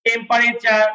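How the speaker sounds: "টেম্পারেচার" with a full extra vowel after the p; wrong pronunciation. Shown as a demonstration. Teacher shows a non-English way of saying it, mispronounced "টেম্পারেচার" with a full middle vowel. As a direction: say "টেম্পারেচার" in four syllables, tem-pa-re-char. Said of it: "এটা কোনো ইংরেজি শব্দের উচ্চারণ নয়".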